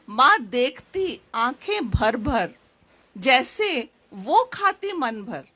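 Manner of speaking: lilting verse delivery, pitch rising and falling by phrase; poem recitation. Acted. Poet recalling dosa outings with her mother, poem recitation.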